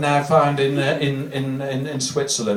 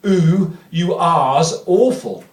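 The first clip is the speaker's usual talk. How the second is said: slow drawn-out catchphrase; much slower than usual. Shown as a demonstration. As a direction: savour the catchphrase like a punchline. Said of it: "listen to this".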